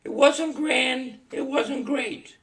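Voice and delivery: slow mock-solemn recital; reading a poem. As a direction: read each line slowly like a tribute. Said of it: "I wanted to read you a poem".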